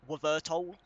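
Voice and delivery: "Wavertol" with a "wuh" sound before the V; attempted Y pronunciation. Real, not acted. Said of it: "how you pronounce that with a Y".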